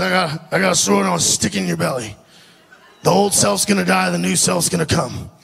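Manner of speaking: lightly imitated accent of an eccentric man; Billy's accent. Crazy Billy promising the old self will die, imitated accent. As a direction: do the man's accent, a little low. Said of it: "I've done an accent the whole time".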